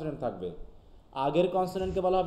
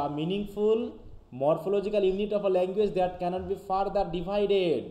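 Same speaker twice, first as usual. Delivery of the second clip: slow, deliberate reading of an English definition; dictating slowly to students; slow textbook reading; 3 semitones higher, much slower than usual. Acted. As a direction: read it out word by word for the class. Teacher reads English definition.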